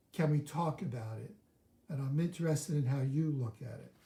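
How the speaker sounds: unhurried and measured; slow, deliberate, calm speech. Shown as a demonstration. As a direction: take a breath, then say it slowly. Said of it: "And slow your speech down. Take a breath".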